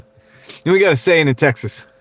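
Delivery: lightly done Texan politician impression; George Bush impression. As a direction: lightly imitate a folksy Texan president. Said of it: "I can do George Bush".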